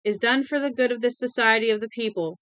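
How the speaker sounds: loud, relentless proclaiming; screaming relentlessly. Acted. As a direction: keep shouting the decree. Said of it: "Winky screamed relentlessly".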